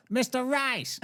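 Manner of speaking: put-on high caricatured Asian accent; mock Asian accent. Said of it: "you can't do an Asian accent".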